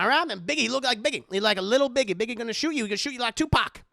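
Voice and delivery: a hint of a loud old lady warning; old black lady voice. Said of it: "His Old Black Lady sounds like Cage Guy".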